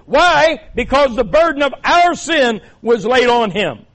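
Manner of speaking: loud, high preacher's climax; impassioned preaching. Real, not acted. Preacher explaining the burden of our sin, impassioned loud preaching. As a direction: preach it out at full voice.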